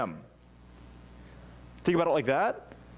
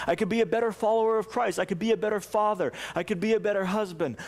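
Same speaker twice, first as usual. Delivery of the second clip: pleading prayer; 5 semitones higher than usual. Pretend.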